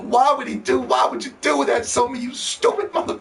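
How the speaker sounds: exasperated mock yell at Sony. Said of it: "I've been clowning Sony for years".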